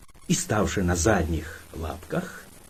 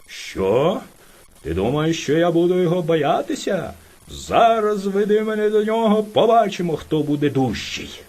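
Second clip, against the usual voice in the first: furious bear; 3 semitones higher than usual. Acted. Enraged bear boasts.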